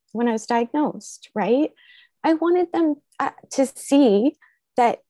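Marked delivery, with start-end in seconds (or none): 2.2-5.0 emotional, holding back tears; getting teary. Real, not acted. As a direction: voice near tears, pushing through. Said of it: "I'm gonna get teary".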